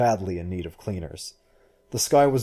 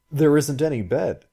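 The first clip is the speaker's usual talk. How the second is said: higher, louder objection; objecting; 6 semitones higher, 5 dB louder than usual. A narrator's reading. Guest sees the bare room, objecting. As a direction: point out the problem, pitched up. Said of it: "he objected".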